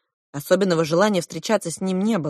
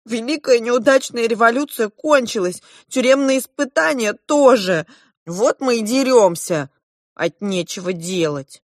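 lightly voiced twins; 6 semitones higher, 4 dB louder than usual. A narrator's reading. Twins explain their fighting.

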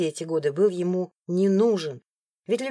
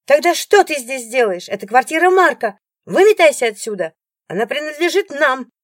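high, loud order to leave; angry yelling; 8 semitones higher, 9 dB louder than usual. Acted. Rival yelling at the ex-wife to get out. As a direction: throw her out with your voice.

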